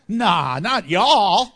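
loud, laughing teasing denial; laughing tease. Real, not acted. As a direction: tease the crowd through a laugh. Joking with congregation, laughing.

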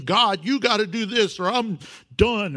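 demanding prayer. Retold or imitated. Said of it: "demanding, dictating".

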